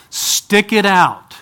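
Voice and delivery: very slow, weighted "Stick it out."; drawn-out pulpit command; slow emphatic exhortation. Acted. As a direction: stretch each word of "Stick it out.".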